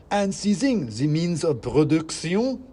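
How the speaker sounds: high, loud, slow squeaky speech; a tiny orator on the barricade; proclaiming mouse. Acted. Sock mouse continues speech.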